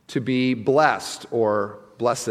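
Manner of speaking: "blessed" said as bless-ed, two syllables, slow. Shown as a demonstration. Preacher musing on the word, two-syllable bless-ed. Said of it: "I don't know why we say it that way".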